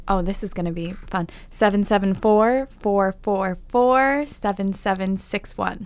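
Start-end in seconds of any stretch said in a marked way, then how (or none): 1.5-5.9 slow, enunciated radio announcer. Acted. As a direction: read the number like a DJ. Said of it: "you put on the radio voice".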